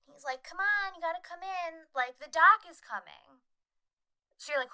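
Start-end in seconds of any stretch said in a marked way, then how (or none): 0.4-3.4 high-pitched calling out, imitated; mock yell, louder at the end; retold yell. Man on shore calls the dad in, mock yelling. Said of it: "he yells to the dad".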